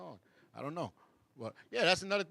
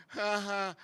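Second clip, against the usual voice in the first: little fake laugh; 5 semitones higher than usual. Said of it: "Like the little laugh that they give after".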